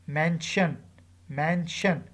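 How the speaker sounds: MANsion, first syllable stressed, falling on "sion"; stress before -sion. Shown as a demonstration. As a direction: demonstrate "mansion" with weight on MAN. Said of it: "stress on the syllable before it".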